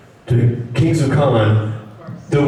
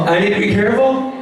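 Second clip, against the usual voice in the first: surprised; 9 semitones higher, faster than usual. Real, not acted. Echoing the coach's warning.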